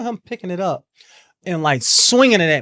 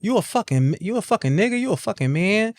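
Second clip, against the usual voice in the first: mock furious yell, voice climbing higher; retold outburst; 4 semitones higher than usual. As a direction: imitate him flipping out on her. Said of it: "him flipping out".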